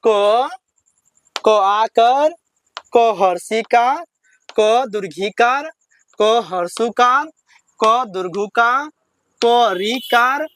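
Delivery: paced chant with pauses between items; teacher leads class recitation; slow recitation drill. Shown as a demonstration. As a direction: recite the list slowly for pupils to repeat. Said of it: "चलिए, मेरे साथ पढ़िए".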